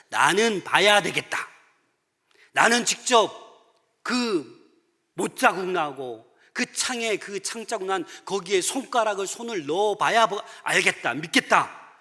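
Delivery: loud, stubborn demand, acted as Thomas; hammed-up defiant declaration; blurted doubt. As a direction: insist on seeing it firsthand. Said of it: "믿음 없는 말을 내뱉었잖아요".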